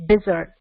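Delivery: "desert" as DEZ-ert; corrected desert. Shown as a demonstration. Teacher giving the correct word, "desert" as DEZ-ert. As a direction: stress the first syllable of "desert". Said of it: "It's not desert".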